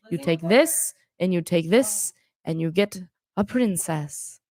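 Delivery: imitating an Italian or Spanish accent, slow and chopped up; slow mock European accent with choppy phrasing; Paulo. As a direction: lightly put on a showy Italian or Spanish accent, piece by piece. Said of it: "has, like, that Spanish accent".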